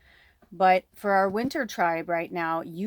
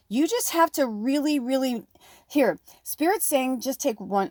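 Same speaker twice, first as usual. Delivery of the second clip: yelling; 5 semitones higher than usual. Real, not acted. Urging viewers to take the leap, yelling. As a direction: push it at them like a shout. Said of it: "I don't know why I'm yelling".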